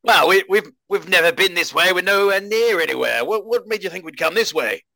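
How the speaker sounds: high, startled cheery greeting; surprised greeting. Acted. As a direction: greet him, caught off guard. Ichabod questions Ismark.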